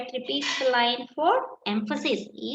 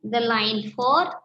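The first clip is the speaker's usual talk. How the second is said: slow, word by word, for writing down; slow dictation; slower than usual. Shown as a demonstration. Teacher dictating the answer to students, slow and deliberate. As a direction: dictate it slowly so they can copy.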